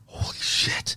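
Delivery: whispered holy shit, under his breath; awed whisper. Retold or imitated. Pocketing the marble in stunned silence, hushed whisper.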